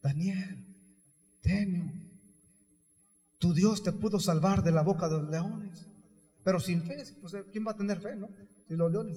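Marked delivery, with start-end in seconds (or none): 0.0-5.9 mildly sorrowful calling, spaced out; understated grief, subdued voice; sad. Acted. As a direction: call out sadly, without force. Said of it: "triste le habla".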